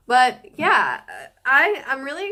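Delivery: talking while chewing; mouth full. Real, not acted. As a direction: speak around a bite of food. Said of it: "Sorry for the chewing in the background".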